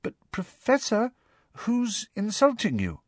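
small, high, timid question; hesitant, high-pitched girl's voice. A narrator's reading. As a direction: ask timidly, feeling your way. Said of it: "asked Parvati timidly".

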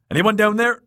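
loud, high shout; high, searching call. A narrator's reading. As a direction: holler down a dark stairwell. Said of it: "he called again".

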